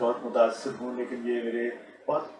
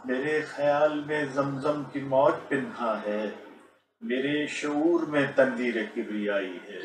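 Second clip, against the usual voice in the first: stately nazm recitation. Shown as a demonstration. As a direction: recite each line with dignity. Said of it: "میں آپ کی خدمت میں دو قطعات".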